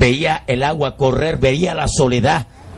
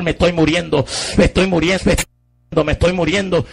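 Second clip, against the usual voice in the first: retold shout; 4 semitones higher than usual. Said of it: "Empecé a gritar".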